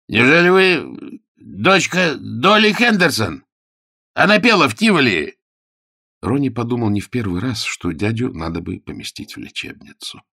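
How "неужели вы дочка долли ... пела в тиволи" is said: overjoyed amazement. A narrator's reading. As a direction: marvel at a lost love's daughter. Uncle recognizing old love.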